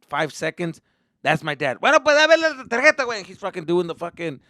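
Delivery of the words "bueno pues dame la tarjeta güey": urgent dad. Retold or imitated.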